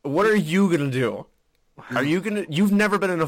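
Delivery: hammed-up jeering taunt at the rich guy. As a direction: goad him harder, voice up. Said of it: "being a cocky prick".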